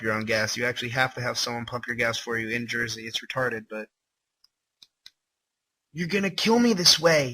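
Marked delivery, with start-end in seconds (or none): 5.9-7.3 high, pleading victim voice; begging victim. Acted. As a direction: plead in a higher voice. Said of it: "he tried to beg".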